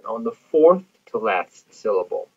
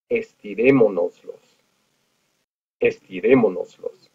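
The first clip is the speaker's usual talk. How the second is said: estirémonoslos with the stress on RÉ; stress on the accented E. Shown as a demonstration. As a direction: model estirémonoslos carefully, accent four syllables from the end. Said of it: "add our accent over the E".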